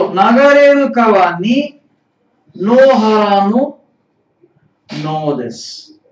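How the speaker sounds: phrase by phrase, firm start and dropped ending; measured teacher's read-aloud, falling away at the end. Shown as a demonstration. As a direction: read out the Japanese with long pauses. Teacher reads answer slowly for learners.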